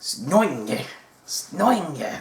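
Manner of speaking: mock French accent. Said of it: "the little French guy".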